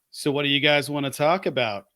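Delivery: lightly voiced wrestler's promo opener; a hint of a wrestler addressing the crowd; Cody Rhodes impression. Co-host quoting the promo of the year, light wrestler impression. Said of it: "that was a solid impression".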